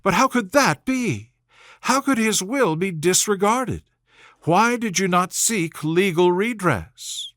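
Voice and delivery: Elizabeth, indignant. Acted. Elizabeth to Wickham, a hint of indignant disbelief. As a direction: press him with disbelief.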